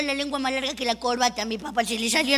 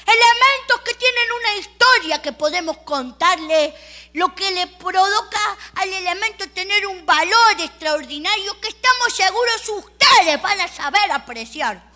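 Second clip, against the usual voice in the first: higher, louder salesman's patter; auctioneer voice; 4 semitones higher, 5 dB louder than usual. Retold or imitated. Auctioneer praises the items, raised and showy. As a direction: pitch the goods to the crowd. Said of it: "Apareció un señor ... dijo".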